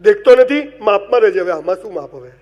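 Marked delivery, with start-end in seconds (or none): 0.0-1.4 loud, sharp rebuke; a snapped warning; mock scolding. The girl on the bus scolds the narrator, loud and sharp.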